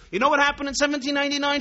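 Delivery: heated retort. Retold or imitated. Angry teacher continues.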